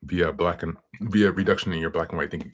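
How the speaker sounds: talking through hiccups; hiccuping between words. Real, not acted. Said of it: "Sorry, I'm, like, hiccuping".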